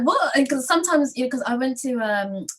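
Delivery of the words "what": high, puzzled what with a rise; incredulous question; confused what. Retold or imitated. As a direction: sound thrown by the instruction. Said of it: "and you're like".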